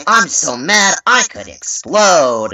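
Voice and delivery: high, slow kid's attempt at mad; badly faked anger in a child's voice; kid failing at anger. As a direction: stretch it out, trying sweetly to sound mad. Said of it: "I need you to sound mad".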